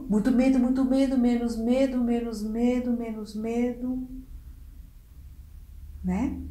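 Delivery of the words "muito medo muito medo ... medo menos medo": medo diminuindo. Shown as a demonstration. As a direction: start frightened and rushed, let it gradually fade. (medo que vai passando aos poucos)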